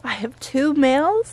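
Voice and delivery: gasping, slowed playful wonder; mock surprise. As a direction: ham up the amazement for the kid. Mock delight for the child.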